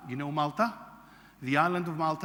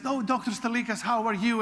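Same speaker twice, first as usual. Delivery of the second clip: cheery greeting; 7 semitones higher, 4 dB louder than usual. Retold or imitated. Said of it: "walks towards me and says".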